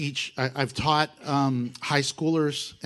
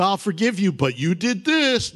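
grudging forgiveness; 3 semitones higher, 4 dB louder than usual. Shown as a demonstration. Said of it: "You know".

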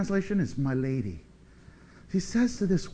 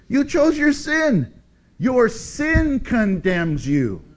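God speaking to the sinner; 7 semitones higher, slower than usual. Pretend. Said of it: "He says".

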